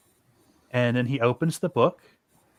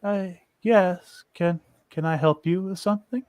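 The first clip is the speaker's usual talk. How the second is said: distant half elf; 5 semitones higher than usual. Acted. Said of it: "very slowly he looks up at you and goes".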